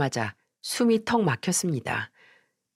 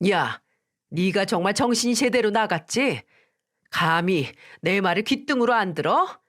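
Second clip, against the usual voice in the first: mother-in-law scolding her daughter-in-law, raised pitch; cursing at her daughter-in-law, a bit higher; hammed-up angry mother-in-law; 4 semitones higher than usual. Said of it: "듣기 험한 쌍욕을 퍼부으셨어요".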